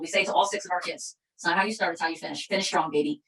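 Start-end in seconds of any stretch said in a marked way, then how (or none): 1.4-3.2 mother's motto. Shown as a demonstration. Mother passing the family motto to her six kids, tender. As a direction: say it like you're tucking your kids in. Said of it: "famous saying in the Meoli household".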